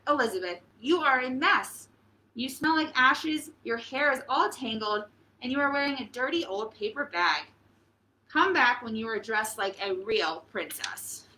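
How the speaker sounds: a lightly voiced, haughty Prince Ronald; snooty prince. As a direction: look down on her messy clothes. Prince voiced in read-aloud story.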